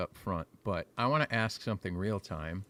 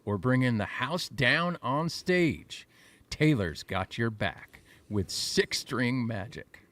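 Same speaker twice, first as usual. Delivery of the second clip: party host read; 4 dB louder than usual. Acted. Reads AI text as party host.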